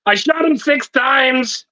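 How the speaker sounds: high, slow, overdone action-hero bark; Arnold Schwarzenegger impression. Mate reluctantly quoting a film to podcast friends, hammed-up bad Arnold. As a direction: ham up a clumsy Terminator-style line. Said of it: "I know I'm gonna sound like Arnold Schwarzenegger".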